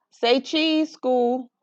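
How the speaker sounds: high, bright call to the clouds; playful photo call. Acted. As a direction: coax them to smile like a child with a camera. Child photographing.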